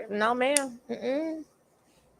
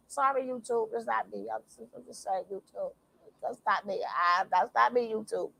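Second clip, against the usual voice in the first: mock innocence; 2 semitones lower, 6 dB quieter than usual. Real, not acted. Disclaiming to YouTube.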